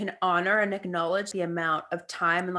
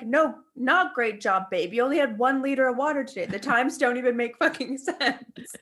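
exasperated retort; 3 semitones higher than usual. Acted. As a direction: scold the bottle. Mock-arguing with bottle.

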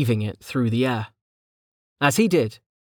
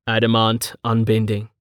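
somber; 2 semitones lower than usual. Acted. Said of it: "He spoke in a somber voice".

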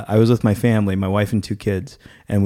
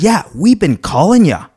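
mock scolding; 9 semitones higher, 5 dB louder than usual. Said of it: "She said".

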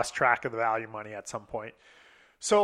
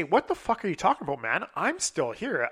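higher-pitched, indignant protest; retold fuming; 3 semitones higher than usual. Texting the groom back from the back room, fuming. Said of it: "like, fuming".

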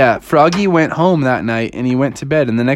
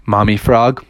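low, deliberate cool leader; low-voiced team leader; Doctor Venkman; 5 semitones lower than usual. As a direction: lay it down low and measured. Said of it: "Doctor Venkman said".

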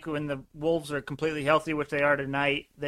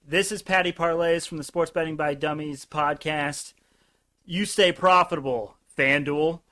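promo sign-off. Shown as a demonstration. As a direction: close the promo with a punch. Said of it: "how should I close out the promo".

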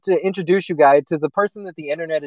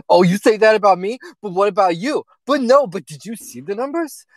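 high, whiny, near-tearful pleading; mock a man about to whimper; 6 semitones higher than usual. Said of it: "about to whimper".

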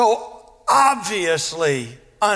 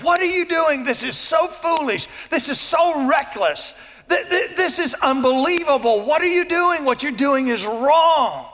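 higher-pitched mock scolding; incensed scolding; 4 semitones higher than usual. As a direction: imitate indignant critics hammering away, voice raised in pitch. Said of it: "They're scolding her".

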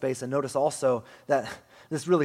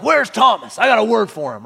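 hammed-up furious shout, much higher and louder; mock angry Jesus; 8 semitones higher, 13 dB louder than usual. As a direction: storm in yelling for Thomas. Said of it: "This isn't Jesus, like, kicking down the door".

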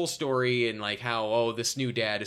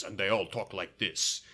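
mock F Troop Native accent; 6 semitones lower, 3 dB quieter than usual. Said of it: "Italian American actors play Native Americans".

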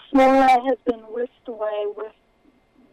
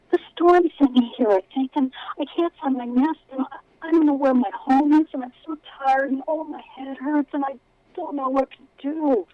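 gushing; 5 semitones higher, 3 dB louder than usual. Acted. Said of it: "this time gushing".

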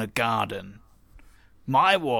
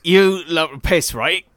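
character voice. Acted. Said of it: "I did not intend to stick to this voice".

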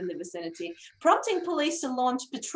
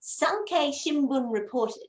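news announcer voice. Acted. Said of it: "do my best news announcer voice".

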